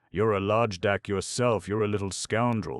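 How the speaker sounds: loud indignant retort; angry retort. A narrator's reading. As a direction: hurl the insult back. Mitya answers Pole's insult.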